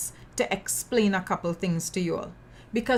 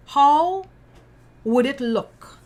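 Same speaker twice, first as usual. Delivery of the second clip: incredulous; 5 semitones higher, 6 dB louder, slower than usual. Real, not acted. Rhetorical outrage.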